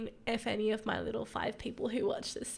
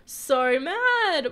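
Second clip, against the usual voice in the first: loud, higher, wailing anger; mad; 5 semitones higher, 9 dB louder than usual. Real, not acted. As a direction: let the anger burst out in a wail. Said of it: "I'm so mad".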